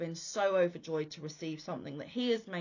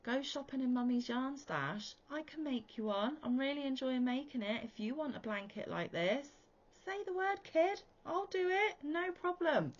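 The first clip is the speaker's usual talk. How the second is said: cheery to son; 7 semitones higher than usual. Retold or imitated. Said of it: "I said".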